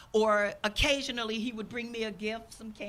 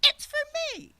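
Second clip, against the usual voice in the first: incredulous objection. Retold or imitated. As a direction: play the offended person who takes it personal. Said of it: "so many people say".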